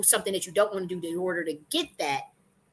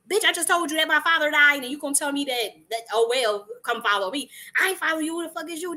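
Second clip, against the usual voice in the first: higher, indignant mock fury at the friend; outraged comeback; 7 semitones higher than usual. A grieving man, to Yeshua, hammed-up outrage. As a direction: snap back like someone just insulted. That would be a fight.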